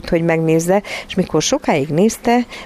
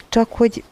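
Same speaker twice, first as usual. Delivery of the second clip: higher, hesitant and left hanging; breaking off; 5 semitones higher than usual. A narrator's reading. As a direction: stop short mid-sentence. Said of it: "itt elakadt".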